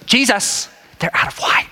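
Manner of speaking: mock nagging mother; a light put-on pleading mom; lightly voiced mom pressing her son; full mom. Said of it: "she goes full mom on him".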